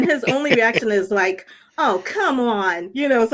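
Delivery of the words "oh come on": slow, drawn-out exasperated complaint; hint of acted dismay; mock exasperation. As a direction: stretch it out, lightly imitating a fed-up man. Voices doomed character's exasperated reaction.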